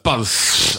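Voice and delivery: put-on toddler's wet lisp on BUZZ; imitating child's lisp. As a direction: BUZZ with a long, spitty lisped ending. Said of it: "he just spits all over us".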